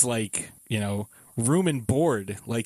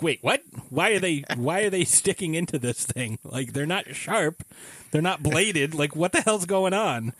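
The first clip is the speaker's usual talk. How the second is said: higher-pitched baffled protest; mock bewilderment; 4 semitones higher than usual. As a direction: act incredulous at what you see. Acting out bewildered viewer.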